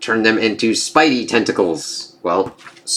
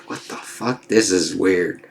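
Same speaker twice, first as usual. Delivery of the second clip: hushed muttering; 4 semitones lower, 6 dB quieter than usual. Retold or imitated. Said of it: "like when you lose a tooth".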